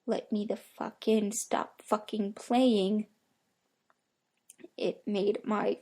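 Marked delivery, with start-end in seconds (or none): 0.0-3.1 slow, halting, unnatural rhythm with no cadence; halting inhuman voice. Acted. Creature at the door begging to be let in, halting and inhuman. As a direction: mimic a thing copying human speech, word by word. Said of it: "in this haltingly weird tone voice".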